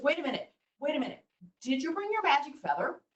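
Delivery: high-pitched, quick storybook rabbit; a hint of a pleading trickster rabbit; lightly voiced Rabbit. Rabbit stalls the hungry Eagle.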